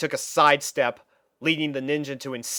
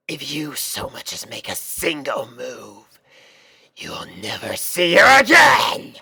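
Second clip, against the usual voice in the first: ninja's threat; 5 dB louder than usual. Acted.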